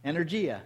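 Energia said as Greek ennerGEE-ah; Greek word. Shown as a demonstration. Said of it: "you know what that word is".

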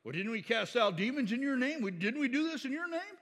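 pleading false followers. Retold or imitated. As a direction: plead your record to Jesus. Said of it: "Where he says".

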